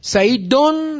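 "سعیدون" with a weighted -don; "سعیدون" as sa'i-don, last syllable held; nominative ending. Shown as a demonstration. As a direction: stress the final -on of "سعیدون". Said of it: "وقتی فاعله".

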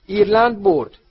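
high, booming victory shout. A narrator's reading. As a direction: proclaim the winner at full voice. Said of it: "بگمن فریاد زد".

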